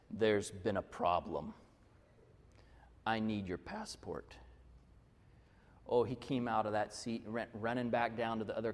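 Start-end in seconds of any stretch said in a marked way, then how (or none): 0.1-4.3 low, slow, stern official; a stern conductor demanding a passport, low and slow; gruff conductor. Retold or imitated. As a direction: lower and slow it right down like an intimidating conductor. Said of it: "in this really gruff voice".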